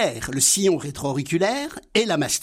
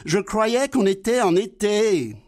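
higher, naive sidekick voice; Laurel's voice; 3 semitones higher than usual. Acted. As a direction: play the simple-minded friend, high and eager. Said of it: "Dialogue imaginaire entre Laurel et Hardy". (voix aiguë et naïve de Laurel)

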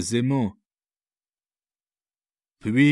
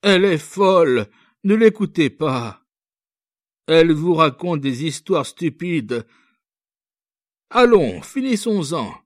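put-on high, loud angry old man; 8 semitones higher, 6 dB louder than usual. A narrator's reading. Old father to the officer, silencing his daughter, angry. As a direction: cut her off in anger. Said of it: "il se fâcha".

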